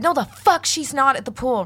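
high, indignant mock outburst; retold flip-out. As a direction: re-enact an angry mother refusing to believe it. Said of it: "so I instantly flip".

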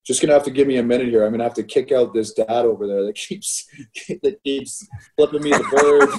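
ref's words broken by laughter; laughing retelling. Retold or imitated. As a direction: quote the ref while cracking up. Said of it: "comes over the bench and goes".

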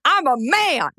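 high, slow shouted rant; quoting Mike Gundy. Retold or imitated. Quoting a coach's famous rant to the hosts, high and slow. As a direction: bellow it like a fired-up coach. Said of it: "I'm gonna give you the quote".

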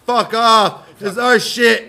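high, loud defiant shout; mock yell. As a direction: tell the buyers off, loudly. Miners refuse buyers.

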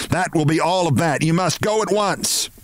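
high-pitched outrage without much volume; indignant shout. A narrator's reading. Outraged woman throwing her guest out, contained shout. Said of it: "she shouted".

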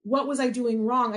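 acted touch of exasperation; ticked off. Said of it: "I was ticked".

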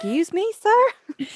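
prim high "excuse me, sir?" rising sharply; mock indignant. To co-host, mocking the captain's title, prissy and indignant. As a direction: play it affronted and prissy. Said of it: "I was like".

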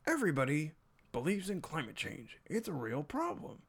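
high, sing-song talking-down voice; condescending. Retold or imitated. Imitating a science host talking to millennials, high and condescending. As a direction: mimic a host patiently lecturing young viewers. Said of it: "it's still very condescending".

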